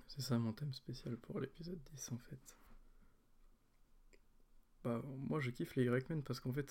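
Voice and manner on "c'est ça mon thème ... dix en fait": soft secretive whisper. Real, not acted. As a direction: whisper it, fading out. Whispered theme reveal.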